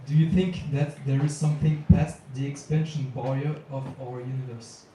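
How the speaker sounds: clearer repeat. Real, not acted. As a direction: say it again clearly so she catches it. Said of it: "Say the last little bit again".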